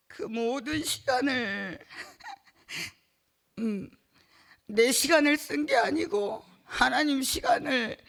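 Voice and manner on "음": a tearful, soft half-laugh half-sob; crying laugh. Real, not acted. Woman testifying in church, breaking into a soft tearful sob. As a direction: let a sob slip through a laugh.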